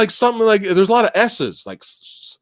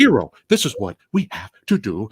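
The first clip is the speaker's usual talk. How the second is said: put-on old evil scientist voice; 6 semitones lower than usual. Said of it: "channeling the old evil scientist speak".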